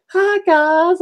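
mock YouTube girl with vocal fry. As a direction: stretch the greeting out in a put-on creak. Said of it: "doing that vocal fry thing".

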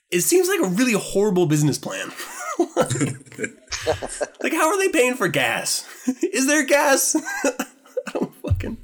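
laughing as the words break up. Real, not acted. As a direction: giggle through the words. Laughing at Jawa business plan.

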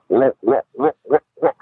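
imitated bass wah wah; mock porn music. Co-star making porno music noises, low wah wah. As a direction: hum a cheesy porn soundtrack. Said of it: "he's going".

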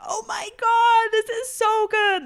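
gushing high, loud and drawn-out; mock-swooning over amazing food; blown away. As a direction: imitate an ecstatic customer, stretching every word. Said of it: "blown away".

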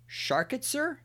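ordinary talk

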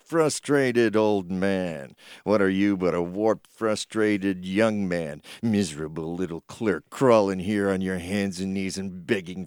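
put-on low, slow, sneering old man; sneering old miser. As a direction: gloat down at him like a rich miser. Potter sneers at George.

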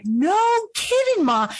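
high, slow amazed "no kidding"; mock surprise. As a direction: play up the disbelief. Teasing mom in retold story.

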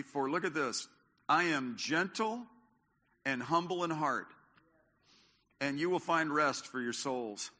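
measured, solemn reading of the verse; scripture reading. Acted. Reads the scripture passage.

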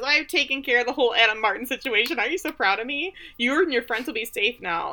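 high, pleased boasting; Walter. Retold or imitated. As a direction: say it with a proud smile. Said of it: "And he's smiling".

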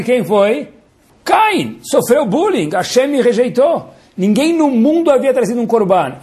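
high, hurt complaining voice; whiny Caim. Acted. Caim complaining to his father about Hashem, high whine. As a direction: whine like a wounded older brother. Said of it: "Aí Caim fala".

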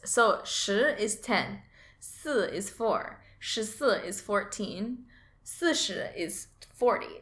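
十 and 四 said slowly and clearly; slow teaching of 十, 四, 十四, 四十; Mandarin tones demo. Shown as a demonstration. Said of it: "listen to this".

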